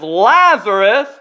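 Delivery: Lazarus called out slowly; loud cry. Acted. Jesus calling to the dead Lazarus, loud cry. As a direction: stretch the name like calling into a tomb. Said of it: "he cries with a loud voice".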